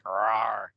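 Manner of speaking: low playful growl; werewolf growl. Retold or imitated. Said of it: "The werewolf growled".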